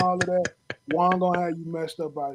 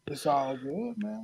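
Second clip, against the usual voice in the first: breathy whispered concession; 9 dB quieter, slower than usual. Real, not acted. To Smoke, admitting defeat in a whisper. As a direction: let it slip out as a whisper. Conceding his thinning hair.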